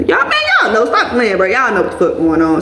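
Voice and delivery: breaks into a high embarrassed laugh; laughing aside. Real, not acted. Telling viewers they know, laughing awkwardly.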